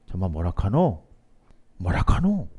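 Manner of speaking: baffled Gyeongsang question, rising on the repeat; Gyeongsang dialect. Acted. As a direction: imitate a puzzled Gyeongsang reply. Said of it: "투박한 경상도 사투리로". (어리둥절한 경상도 사투리 흉내)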